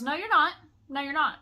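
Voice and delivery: retold arguing. Security guard argues with the balcony man, retold loud refusal.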